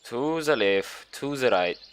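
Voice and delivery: put-on Russian accent, slow on the left, with z for th in "the". Narrator reading the game aloud, in a mock Russian accent. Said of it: "What accent am I doing?".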